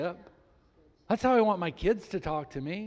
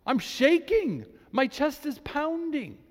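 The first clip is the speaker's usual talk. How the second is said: scared; 9 semitones higher, 4 dB louder, slower than usual. Retold or imitated. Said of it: "he's like".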